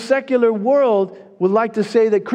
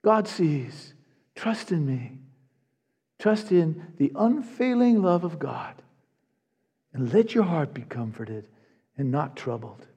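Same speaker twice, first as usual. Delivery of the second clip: soft comfort; 3 semitones lower, 6 dB quieter than usual. Acted. Preacher voicing Jesus's comfort softly.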